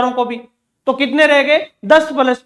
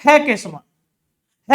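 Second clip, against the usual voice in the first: 1 slow teacher answer; much slower than usual. Shown as a demonstration. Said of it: "इसका उच्चारण होता है किसके समान है?".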